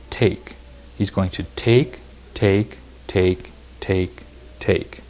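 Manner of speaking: "take" said over and over with small gaps; repeated stress on take. Shown as a demonstration. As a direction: hammer "take" as separate beats, fading at the end. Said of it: "I kept emphasizing that word".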